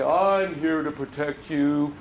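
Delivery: very slow, steady protective promise; slow reassurance. Pretend. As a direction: promise safety to the lonely dog. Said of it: "and I'll say".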